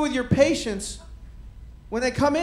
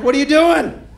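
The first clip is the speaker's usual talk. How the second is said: self rebuke; 4 semitones higher, 8 dB louder than usual. Retold or imitated. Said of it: "Then I was like".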